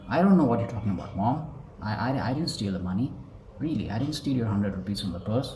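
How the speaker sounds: fast, hurried denial to mom; nervous kid denying. Shown as a demonstration. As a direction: rush the words like a scared kid caught out. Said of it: "and they're like".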